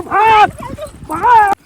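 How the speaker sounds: high, loud, drawn-out urging; urgent shout. Acted. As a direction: yell to keep her running. Lover urges girl to flee pursuers. (चिल्लाकर भागने को कहना)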